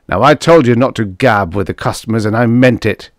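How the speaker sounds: loud, menacing snarl. Acted. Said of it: "he snarled".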